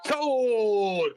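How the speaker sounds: loud shouted sold; auctioneer's sold. Pretend. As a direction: slam it down like a gavel. Auction ends with sale.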